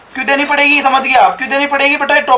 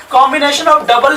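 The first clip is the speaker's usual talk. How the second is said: slow dictation; much slower than usual. Shown as a demonstration. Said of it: "teacher dictating a definition".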